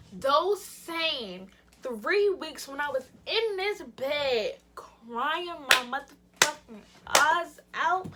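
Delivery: "those same three weeks" slowly drawn out; indignant emphasis. Real, not acted. Telling when he cheated, slow indignant emphasis. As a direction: stretch "crying my motherfucking eyes out" word by word.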